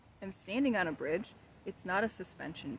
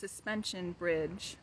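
title read slowly, with weight; slow poem title; slower than usual. Shown as a demonstration. Poet announcing her poem's title, slow and deliberate. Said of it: "here we go".

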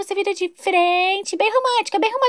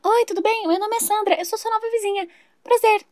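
slightly higher, gushing neighbour voice; chatty new neighbour; 3 semitones higher than usual. Acted. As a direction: play the overexcited new neighbour Sandra. Nova vizinha se apresenta. (vizinha empolgada e tagarela)

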